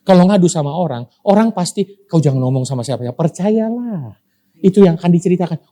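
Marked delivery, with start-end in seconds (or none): 2.1-3.2 fast, hushed-tone telling of a secret; quick gossip. Retold or imitated. Gossiping neighbour passes a secret along, fast. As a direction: rattle it off like passing on gossip.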